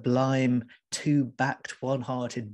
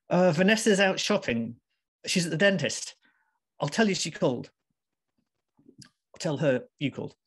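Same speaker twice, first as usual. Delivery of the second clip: higher, lips barely moving, horrified; appalled ventriloquist; 5 semitones higher than usual. Acted. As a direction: push the words out without moving your mouth. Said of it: "Debs spoke like an appalled ventriloquist".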